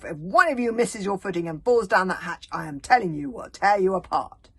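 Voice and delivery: loud, savage threat yelled upward; howling threat. A narrator's reading. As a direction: howl the threat at the hatch. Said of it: "howling up at the ceiling like a wolf".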